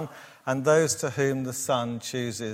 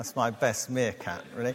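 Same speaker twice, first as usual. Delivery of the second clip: normal talking voice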